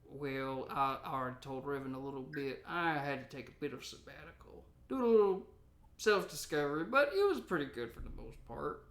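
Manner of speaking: a hint of a grizzled gold miner; old prospector voice. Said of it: "and then there's Old Prospector".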